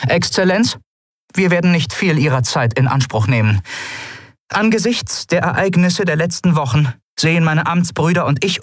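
determined officer reading out demands; Kalin's voice. Acted. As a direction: speak up with formal, measured resolve. Kalin addresses the governor formally.

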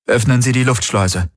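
mildly resolute order; understated determination; determined. Acted. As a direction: force yourself to sound firm. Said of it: "so entschlossen, wie er nur konnte".

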